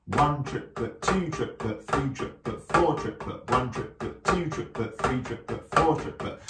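steady beat count, each number leading its "triplet"; rhythmic count. Shown as a demonstration. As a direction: count "One triplet, two triplet" evenly, in time. Counting aloud along with the drumming.

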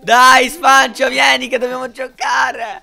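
loud, slow call across the room. Real, not acted. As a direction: call him over loudly. Chiama un giocatore. (chiamata ad alta voce)

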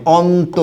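অন্ত as "on-to", y-sound dropped; pronunciation demo. Shown as a demonstration. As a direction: say অন্ত with a single unlengthened t. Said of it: "উচ্চারণ কিন্তু এরকম হবে". (অন্ত স্পষ্ট করে "অন্-তো" উচ্চারণ)

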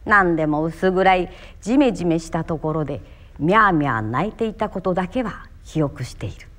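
literary reading in standard Japanese; standard-Japanese recitation. Shown as a demonstration. Actor showing one story in many dialects, standard-Japanese literary recitation. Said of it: "一つのお話を いろいろな方言で喋ってみますから".

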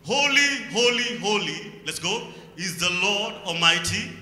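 slow, declaimed scripture with weighty pauses; scripture reading. Acted. Preacher reads the temple vision to the congregation, loud declamation. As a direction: proclaim the verse out loud, phrase by phrase.

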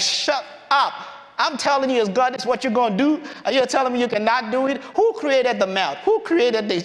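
mock-mad, emphatic scolding; exasperated telling-off, acted with some heat; God. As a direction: lay down the law to someone arguing back. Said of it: "God was mad with him".

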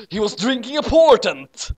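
real laughter breaking through the reading; can't hold back the laugh. Real, not acted. Cracking up at the text.

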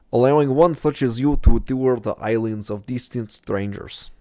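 put-on light Gru-style Russian accent. Gamer admitting he is reading the guide like Gru, lightly. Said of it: "Now I'm trying to do Gru".

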